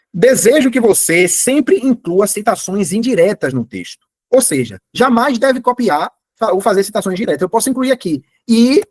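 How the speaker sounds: slow, deliberate prompt dictation. Shown as a demonstration. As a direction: dictate each phrase slowly, as if typing it. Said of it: "eu falo aqui, olha". (ditado lento e pausado)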